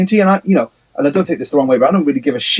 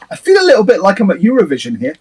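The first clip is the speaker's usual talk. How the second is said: higher, mock contest host; lightly hammed Eurovision voice; Eurovision feeling; 6 semitones higher, faster than usual. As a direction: sound like a song contest show. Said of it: "I go".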